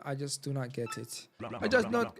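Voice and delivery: put-on a weak, half-hearted French accent. Confused Frenchman in the pipe, bad French accent. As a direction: try for a French accent and falter. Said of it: "how to do a French accent".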